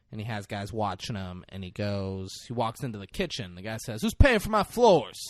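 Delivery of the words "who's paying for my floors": loud, high complaint; mock indignant protest. Roger protesting as cops reach his kitchen, mock indignant shout. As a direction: call out in mock outrage.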